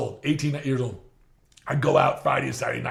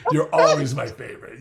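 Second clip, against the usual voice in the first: laughing; 6 dB louder than usual. Retold or imitated. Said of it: "I said".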